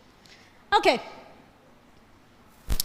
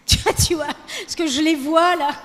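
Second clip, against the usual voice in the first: laughing. Real, not acted.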